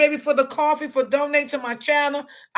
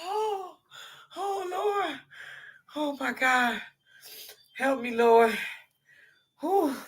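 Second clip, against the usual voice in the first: winding down from laughter; 9 dB quieter, slower than usual. Real, not acted. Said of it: "I was so weak".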